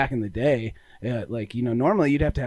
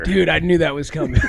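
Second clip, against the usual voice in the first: laughing; 4 semitones higher, 7 dB louder than usual. Real, not acted. Laughing at a friend's slogan.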